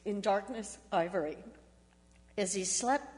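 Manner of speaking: a tender poem read aloud at a memorial. Acted. Reads a published poem aloud.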